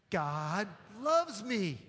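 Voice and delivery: slow, firm and sincere; mean every word of it, slowly; like you mean it. Shown as a demonstration. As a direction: pastor leading the church to say it with real conviction. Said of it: "you don't say it like you mean it".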